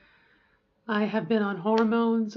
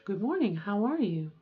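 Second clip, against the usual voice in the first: good morning settled a little lower; lower-range greeting; 4 dB quieter than usual. Shown as a demonstration. Showing a compromise voice for daughter, slightly lowered range. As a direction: ease the greeting down into a softer range. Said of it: "a little bit more in this range".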